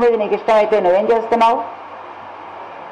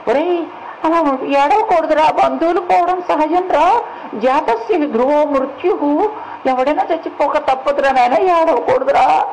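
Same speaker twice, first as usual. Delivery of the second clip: higher-pitched mock consolation, unlike the usual voice; consoling elder; 6 semitones higher than usual. Telling a bereaved man that death is natural, mock-consoling. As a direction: play someone piously soothing a crying mourner, pitched up.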